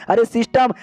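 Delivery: a touch of whiny desperation; mock tearful plea. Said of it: "हमारे मेकट को रोना आ जाता है".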